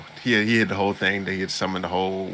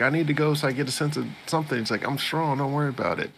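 confident hero; 6 semitones higher, much faster than usual. Retold or imitated.

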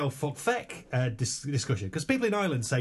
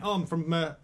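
mock Irish accent, lightly done; hammed-up Galway brogue; west of ireland accent. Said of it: "Like that".

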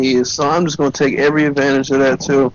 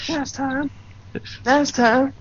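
laughing while talking; 10 semitones higher, 7 dB quieter, much slower than usual. Real, not acted. Friends cracking up over memory.

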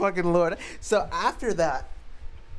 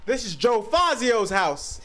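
loud, slow, raised declaration; homeowner's proud announcement; 5 semitones higher, 5 dB louder, slower than usual. Retold or imitated. Comic retelling of homeowner introducing his house, loud slow announcement. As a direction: announce it slowly, lightly imitating a homeowner. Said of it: "He's like".

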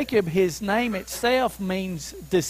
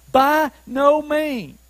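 "By no means" slow and weighty, each word separate; emphatic refusal; 3 semitones higher, 4 dB louder, slower than usual. Acted. Preacher returning to Paul's answer, slow and emphatic. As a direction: land on BY, NO, MEANS deliberately. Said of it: "It's the most emphatic way of saying no".

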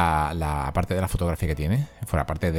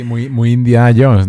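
excited exclamation; 3 semitones higher, 12 dB louder, slower than usual. Real, not acted. Laughing agreement about film scene.

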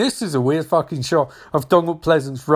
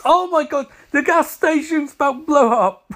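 higher, louder words through laughter; laughing while talking; 8 semitones higher, 3 dB louder than usual. Real, not acted. Watching the gas station about to blow up, laughing while talking.

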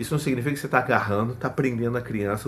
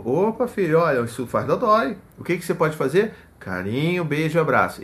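calm, lighter guiding voice, not scolding; gentle redirect; 2 semitones higher than usual. Retold or imitated. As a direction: redirect the child kindly, no shouting. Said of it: "é tipo". (redirecionamento calmo e gentil)

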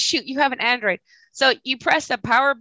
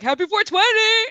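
excited; 11 semitones higher than usual. Retold or imitated. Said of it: "at work you can't be like".

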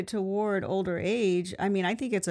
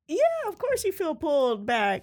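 put-on Irish accent; 7 semitones higher than usual. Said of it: "I wanna do this Irish accent a little bit longer".

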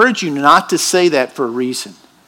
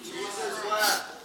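Jesus wept barely above a breath, slow; hushed reverent quote; 5 semitones higher, 16 dB quieter, much slower than usual. Shown as a demonstration. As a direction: let it fall softly and slowly. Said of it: "The shortest verse in the Bible".

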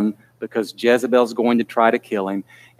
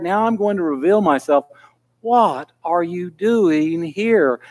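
rising plea; 4 semitones higher than usual. Acted. God rebuking Elijah, building.

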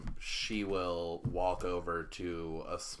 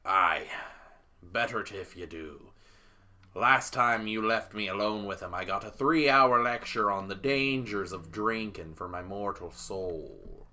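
lightly voiced captain with a complaint; grumbling captain; 3 dB louder than usual. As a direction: grumble like a put-upon captain.

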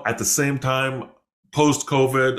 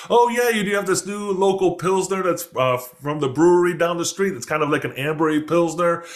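higher-pitched, eager butting in; helpful interjection; 7 semitones higher than usual. Retold or imitated. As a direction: imitate a bar patron piping up. Patron calls across the bar.

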